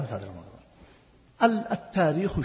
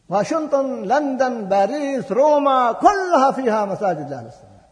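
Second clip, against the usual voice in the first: higher, louder, each capital hammered; rising rhetorical list; 6 semitones higher, 4 dB louder, slower than usual. Real, not acted. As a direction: build the list to an indignant climax. Listing capitals, rhetorical climax. (تعداد خطابي متصاعد بحدة)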